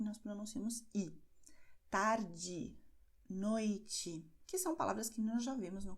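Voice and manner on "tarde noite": "Tarde, noite" ending in an ee sound; final E as I. Shown as a demonstration. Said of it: "tem o som de I". ("Tarde, noite" com E final pronunciado como I)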